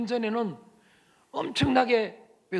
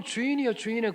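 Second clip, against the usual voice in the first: mock flattery; 3 semitones higher, faster than usual. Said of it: "입으로는".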